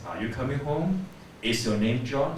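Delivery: "home" and "John" each rising; question intonation. Shown as a demonstration. Teacher modelling practice questions, rising intonation. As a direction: lift the end on "home" and on "John". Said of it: "get the right intonation".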